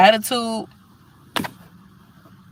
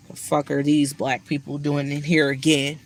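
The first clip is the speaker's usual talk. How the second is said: imitating racist manager; 2 semitones lower than usual. Mocking the racist manager's imagined thoughts, sneering. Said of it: "That's how he be looking".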